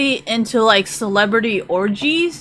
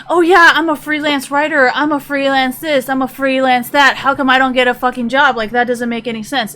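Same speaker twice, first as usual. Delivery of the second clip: higher, louder mocking voice of an entitled freelancer; mocking whine; 3 semitones higher, 4 dB louder than usual. Streamer mocking esports freelancers, higher and louder mocking voice. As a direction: sneer it like a self-pitying freelancer begging for work. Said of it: "It's just kind of mocking that".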